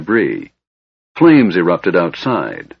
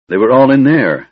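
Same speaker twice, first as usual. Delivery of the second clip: trembling voice; 5 semitones higher, 5 dB louder than usual. Acted. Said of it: "Elistan said in a trembling voice".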